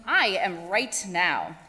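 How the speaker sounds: confident. Acted. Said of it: "Stanley finally confidently said".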